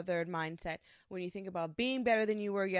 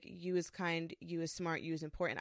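lower, slightly softer recited mantra; gentle affirmation; 3 semitones lower, 4 dB quieter than usual. Acted. Quoting a short soothing mantra.

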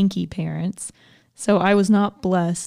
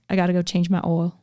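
put-on Southern accent; 2 semitones lower, faster than usual. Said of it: "Yeah, like".

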